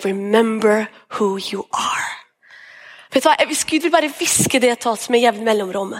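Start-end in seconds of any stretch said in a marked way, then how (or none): 0.0-2.1 breathy whispered reminder, slow; hushed whisper. Retold or imitated. Preacher whispers the father's words to the congregation, slow hush. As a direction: whisper it slowly like a voice from above. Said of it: "elsker bare de ordene".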